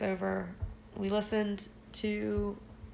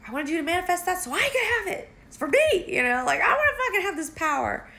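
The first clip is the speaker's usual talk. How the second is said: put-on higher, grasping anime-girl voice; greedy girl voice; 10 semitones higher, 4 dB louder than usual. Haru demanding the hero's power as her own, higher girlish voice. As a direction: play the girl who wants the power for herself. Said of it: "And then Haru is like".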